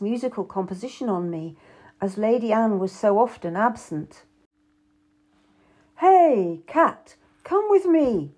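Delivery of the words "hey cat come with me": ordering. A narrator's reading. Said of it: "he ordered".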